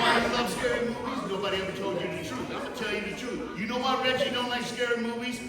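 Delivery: very high, very loud comedic tirade; worked-up, high-pitched stand-up yelling; comic shouted rant. Real, not acted. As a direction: holler the punchlines at the crowd. Comic rant about scary movies.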